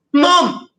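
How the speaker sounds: put-on high, loud call of a child; child shouting. Child in the story calls to mum, high loud shout. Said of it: "I shouted".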